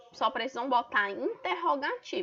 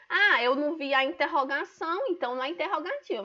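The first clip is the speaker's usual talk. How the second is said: mock student; 4 semitones higher, faster than usual. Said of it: "os alunos acabam errando".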